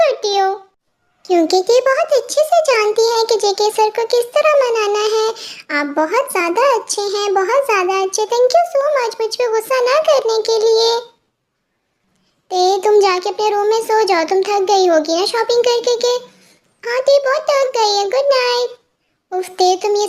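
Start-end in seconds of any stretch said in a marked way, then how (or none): 1.3-10.9 put-on cutesy pleading girl. Girl begs boyfriend not to be angry, cutesy and pleading. Girl thanks him sweetly. 16.8-18.8 put-on higher, sweet girlish voice with a nervous giggle; cutesy pleading girl. Girl begs boyfriend not to be angry, cutesy and pleading. Girl says good night.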